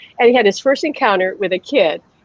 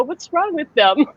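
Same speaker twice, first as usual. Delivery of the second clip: a higher, slower "wrong" that rises; puzzled child; 6 semitones higher, slower than usual. Retold or imitated. Son wondering about unresponsive kids, higher and slower. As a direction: ask "What's wrong with them?" slowly, like an innocent toddler. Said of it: "he'd go".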